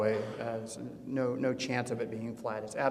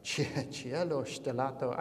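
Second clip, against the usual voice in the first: hesitant Italian reading; 6 dB quieter, slower than usual. Real, not acted. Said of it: "I don't speak Italian".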